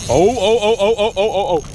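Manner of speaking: high, loud startled oh oh oh as the line goes; a burst of real thrill, voice jumping up; excited oh oh. Real, not acted. Ice fisherman feels a big bite, real excited high yelps.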